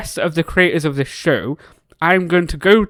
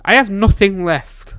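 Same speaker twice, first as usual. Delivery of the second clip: crying; 5 semitones higher, 3 dB louder than usual. Real, not acted. Devastated over character.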